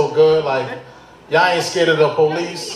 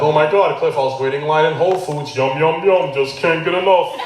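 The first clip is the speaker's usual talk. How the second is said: comic put-on white guy impression. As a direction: do a caricatured white suburban guy. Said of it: "That's my white guy voice".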